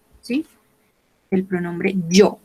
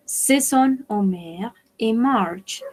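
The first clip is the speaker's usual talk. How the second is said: slow model reading; 4 dB quieter, much slower than usual. Shown as a demonstration. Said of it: "repeat take, slower and softer".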